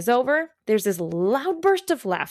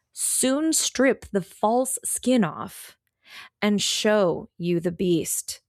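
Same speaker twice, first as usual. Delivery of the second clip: dramatic vow; slower than usual. Acted. Acted grandiose vow to unmask fox.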